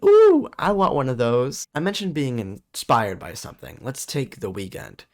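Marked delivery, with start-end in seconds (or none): 0.0-1.6 acted envy. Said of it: "and went".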